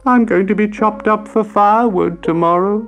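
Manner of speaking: high, loud, distressed wail. A narrator's reading. Piano dreading being chopped for firewood, wailing. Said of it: "wailed Trumple".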